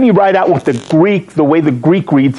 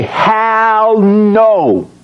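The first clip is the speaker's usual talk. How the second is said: blunt, punchy hell no, pitched up; slangy hell no; 5 semitones higher than usual. Shown as a demonstration. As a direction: toss it off like street slang. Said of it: "The Urban Dictionary would say".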